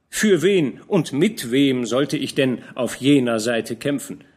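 put-on young man protesting to the old commander; young knight protesting. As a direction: defend your honour eagerly. Georg reports the news.

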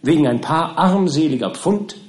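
a touch of formal, measured persuasion; lightly voiced pleading lawyer. Lawyer's pleading speech to his client.

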